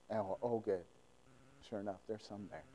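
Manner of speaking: soft, muted little oh good; underplay the discovery on purpose; understated relief. Retold or imitated. Widow finds meal in the barrel, deliberately understated. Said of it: "I don't think that's how it happened".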